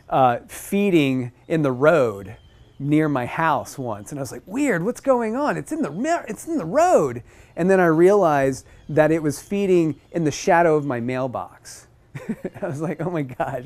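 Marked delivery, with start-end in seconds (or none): 4.4-7.2 higher, surprised wondering; baffled at a bird in the road; puzzled. Retold or imitated. Retold own puzzled thought. 12.1-13.6 laughing. Real, not acted. Laughing at the bird.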